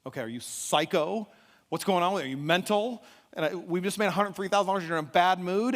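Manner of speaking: wife challenging her husband, exasperated; incredulous confrontation. Retold or imitated. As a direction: build in disbelief, question after question. Acts wife's incredulous confrontation.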